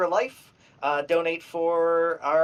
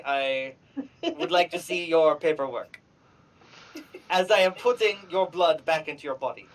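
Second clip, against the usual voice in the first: put-on deliberate, measured Russian-accented English; Russian-accented healer, evenly paced. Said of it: "terrible accent".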